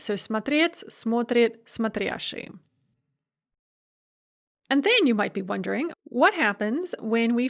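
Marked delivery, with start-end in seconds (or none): 0.1-2.5 смотреть and смотрящий stressed on second syllable, смотрит on first; accent the first syllable only in смотрит, the second in смотреть, смотрящий; stress as in infinitive. Shown as a demonstration. Teacher sums up second conjugation with смотреть, смотрит, смотрящий, stress contrasted. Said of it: "the same as it is in the infinitive".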